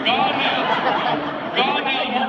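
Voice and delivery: high-pitched Southern shooing; demonstrated Southern call. Shown as a demonstration. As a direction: coach a punchy Southern dismissal. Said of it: "when you're doing your Southern".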